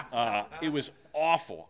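laughing through the memory, slow; rueful laugh. Real, not acted. Pastor laughing at the awful ER memory, rueful. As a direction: laugh it off, then say it slowly.

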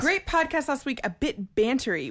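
sarcastic echo of a critique; mocking. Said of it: "When are we not bantery?".

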